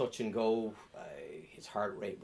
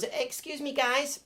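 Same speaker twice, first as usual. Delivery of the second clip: put-on higher, an American tourist faking an Irish accent; bad Irish accent; 4 dB louder, slower than usual. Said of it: "She wasn't very good at the accent".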